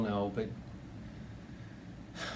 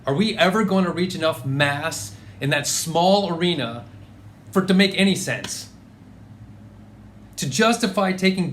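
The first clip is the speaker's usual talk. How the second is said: heated, emphatic challenge to the boss; indignant; 3 semitones higher, 3 dB louder than usual. Acted. Employee challenging a manager on the phone, indignant. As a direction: argue it with mounting outrage.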